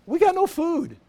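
high whiny complaint, hammed-up; complaining wives. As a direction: wives griping to Nehemiah, mock high whine. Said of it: "the wives start complaining".

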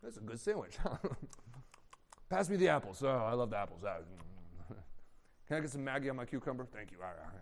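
relaxed and callous, mouth full; a carefree brother at a meal; feasting brother. Acted. Brothers feasting, ignoring Joseph.

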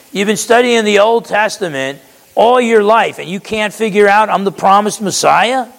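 a teacher fed up with small talk; voicing an impatient Jesus to Nicodemus, exasperated. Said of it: "do you sense the lack of patience?".

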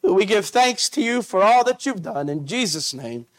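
earnest pastoral prayer voice; steady church prayer, fervent in the middle; closing prayer. Acted. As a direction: lead the congregation in prayer.

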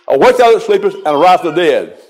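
"Awake thou that sleepest" pressed firmly; first part emphasized. Shown as a demonstration. Preacher showing the part he always emphasized, emphatic. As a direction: stress "Awake" and "arise the dead". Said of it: "I've always emphasized the first part".

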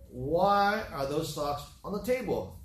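slow, drawn-out mock scolding question; lightly acted spousal reproach, slowly; exasperated wife. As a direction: imitate a fed-up wife, stretching the words. Annoyed wife questions husband, retold.

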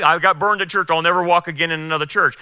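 mimicking excuses. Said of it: "And I've heard that".

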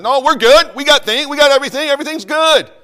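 high, loud, hammed-up boast; mock smug church. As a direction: brag like a self-satisfied rich congregation. Mocking the complacent rich church.

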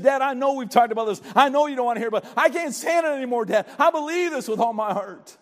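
a son urging his dad to believe; pleading. Pretend. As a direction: plead with Dad, no holding back.

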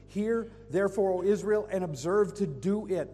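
"Hear" called out loud and high, rising; emphatic proclamation. Acted. Preacher proclaiming God's command to Israel, loud. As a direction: proclaim it with force.

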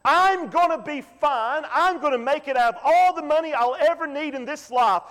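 a touch of the proud farmer gloating over his barns; rich farmer boasting. Retold or imitated. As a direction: puff up like a self-satisfied rich man. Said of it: "He said".

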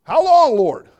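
very high, loud wailing "how long"; anguished cry. Acted. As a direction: wail it up to heaven. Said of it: "He says".

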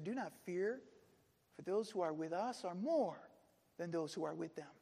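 calm, settling answer; steady them, easing down softly; reassuring. Retold or imitated. Elisha answering his frightened servant, reassuring.

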